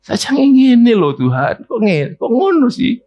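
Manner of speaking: high, slow, loud mock whine; a believer sulking loudly at God; whiny complaint to God. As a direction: stretch it out like a sulking child. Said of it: "Nah, ya kan?".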